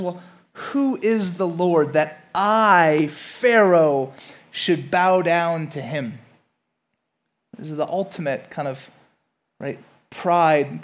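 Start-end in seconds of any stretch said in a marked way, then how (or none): 0.0-6.2 slow, drawn-out defiant question; defiant Pharaoh. Acted. Preacher voicing proud Pharaoh to the church, slow and defiant. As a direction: sneer it out slowly like a proud king. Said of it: "He says".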